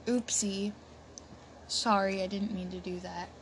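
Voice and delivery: soft guilty whisper; tiny embarrassed whisper; whispered oopsie. Real, not acted. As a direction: breathe it out like a sheepish confession. Playful aside after a confession.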